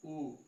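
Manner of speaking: उ said as a brief one-beat vowel; short vowel. Shown as a demonstration. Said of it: "कम समय लगता है".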